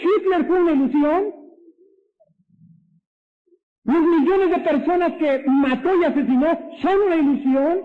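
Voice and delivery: high, rising rhetorical question; incredulous challenge. Real, not acted. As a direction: throw it out in disbelief, pitch climbing to the end. Rhetorical questions mocking the philosophy. (pregunta incrédula e indignada, en tono agudo)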